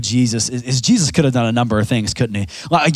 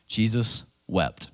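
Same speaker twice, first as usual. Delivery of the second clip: quiet, slow reading; hushed reverent verse; soft solemn; 7 dB quieter, much slower than usual. Acted. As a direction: say it gently and slowly. Verse repeated softly.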